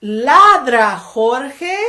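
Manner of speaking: loud call, ladra jorge; loud call in Spanish; calling the dog. Pretend. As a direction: call out the command.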